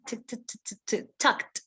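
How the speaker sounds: soft rapid t taps, then "tucked" ending in kt; quiet t bursts leading into "tucked" with a crisp t; letter T sound. Shown as a demonstration. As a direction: tap out voiceless t, landing on "tucked". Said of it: "With the letter T".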